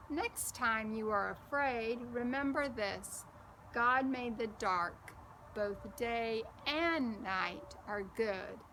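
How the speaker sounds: soothing and unhurried, slowing at the end; calm a frightened little cousin; reassuring. Acted. Gracie comforting scared Bo, arm around him, reassuring. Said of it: "these words on the next page are very reassuring".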